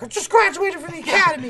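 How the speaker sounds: high-pitched mock rookie voice; eager rookie cop. New cop proud of the academy, mock-eager. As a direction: put on a squeaky fresh-graduate voice.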